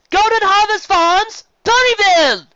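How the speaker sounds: slow, high, loud announcer; slow, loud stage announcer. A narrator's reading. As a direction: call the names slowly and loudly from the stage. Announcer names winner.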